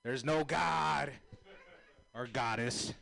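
slow, loud shout; shouted proclamation. Real, not acted. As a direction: bellow it slowly to the crowd.

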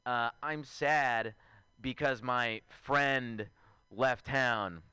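telling mom about the breakup, slow mock sadness; mock sad to mom. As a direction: drag it out like a moping son. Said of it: "I told my mom, I was like".

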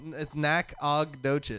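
Nacogdoches said slowly as NAK-uh-DOH-chis; local pronunciation. Shown as a demonstration. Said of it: "Is that how it's spelled?".

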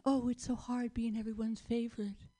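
lightly voiced pouty vegetable; mock pouting diva; pouting sprout. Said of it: "Brussels sprouts are pouting".

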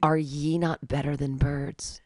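mock preacher. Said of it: "Christians take it an extra step".

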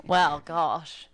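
a light, playful Cockney accent. Shown as a demonstration. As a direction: put on a bit of Cockney. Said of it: "get my Cockney accent on".

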